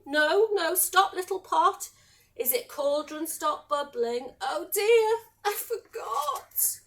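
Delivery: high-pitched, flustered searching for the words; acted fretting that rises into dismay. Betty can't remember the spell, flustered and dismayed.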